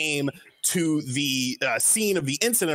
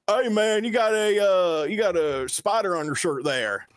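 lightly voiced redneck, higher at first; redneck guy; 4 semitones higher than usual. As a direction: imitate a redneck calling over a stranger. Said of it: "these two, like, redneck guys".

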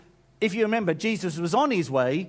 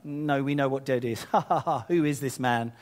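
mocking laughter; 3 semitones lower than usual. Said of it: "They start laughing at him".

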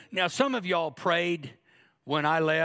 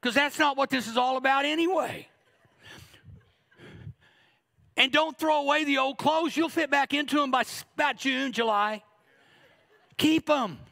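teasing build; 8 semitones higher than usual. Real, not acted. Preacher teasing congregation, rising energy.

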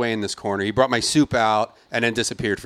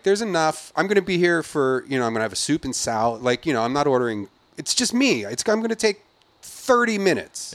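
exasperated pleading; 3 semitones higher than usual. Retold or imitated. Arguing with hostess.

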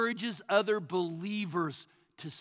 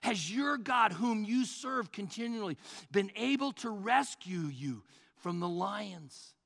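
anguished plea; 3 semitones higher than usual. Acted. King calling to Daniel, mildly anguished. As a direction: plead with rising worry. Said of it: "in an anguished voice".

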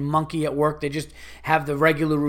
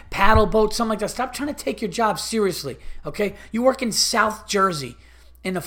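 angry rant; 3 semitones higher than usual. Retold or imitated. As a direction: chew out the clerk for wasting your money. Ranting at rude rental clerk.

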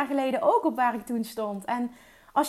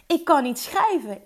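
mildly raised, insistent voice; retold loud declaration; 2 semitones higher than usual. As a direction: state it firmly, a little louder. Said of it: "dat ik keihard uitsprak".

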